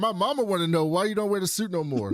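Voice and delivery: put-on high, light child voice; little kid. Kid relaying mom's question to the hero, high childish voice. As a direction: play a kid innocently passing on the question. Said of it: "she said".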